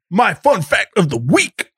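croaking frog person. Acted. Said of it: "in the kind of frog-like voice".

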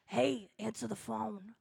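soft reassuring oracle voice; soft universe voice. Acted. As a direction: lull them like the universe itself. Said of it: "This is the universe speaking to you".

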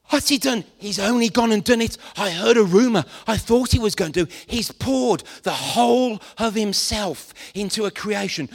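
gossiping angel. Retold or imitated. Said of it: "maybe one angel says".

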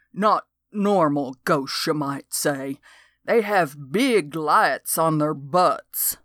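slow, lightly voiced old man marveling; old geezer spinning a tale. Old man describes glowing ghost butts, slow and awed. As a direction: drag it out, wide-eyed.

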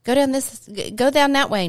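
put-on high, eager little-kid voice; mild imitation of a toddler giving directions. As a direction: pipe it up like a small child pointing the way.

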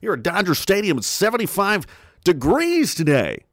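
lightly voiced folksy ballpark announcer; a hint of a laid-back play-by-play man; baseball announcer. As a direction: call the game like an old radio announcer. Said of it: "a guy who talked like this".

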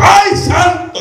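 high, sudden shout; acted ecstatic cry. Preacher acting out being jolted mid-sermon, sudden high cry. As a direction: burst out as if struck by a bolt. Acts out jolt of the Spirit.

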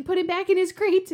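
mock dad's yelled order; imitating dad yelling. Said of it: "my dad kept yelling".

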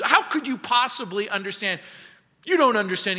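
incredulous retort with mild heat; acted indignation. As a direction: imitate a patient's upset protest. Soldier argues back at surgeon.

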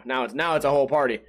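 ordinary talk, nothing marked

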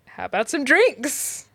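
awkward host. Retold or imitated. Host to guests sitting around awkwardly, imitated awkward offer. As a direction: offer drinks slowly to break an awkward silence. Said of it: "awkwardly talking".

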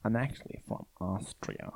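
slow, put-on Austrian accent; slow mock Austrian accent; Austrian accent, Christoph Waltz. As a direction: do his Austrian voice, unhurried. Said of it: "And he goes".

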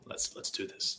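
whispered. Acted. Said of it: "gonna crack his hands and go".

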